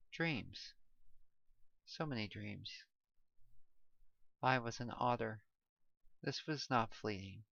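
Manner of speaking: quiet drifting voice; hushed, sinking into dreams; soft dreamy narration. A narrator's reading. Fading into dreamy otter life.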